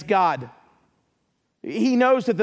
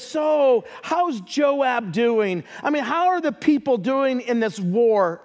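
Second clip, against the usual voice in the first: fake concern; 2 semitones higher than usual. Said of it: "Like he really cares".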